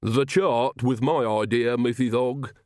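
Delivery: slow, proudly lisped boast; proud, lisping. Acted. Igor shows Missus Ogg his chart, proudly. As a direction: lisp it slowly with pride. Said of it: "said Igor proudly".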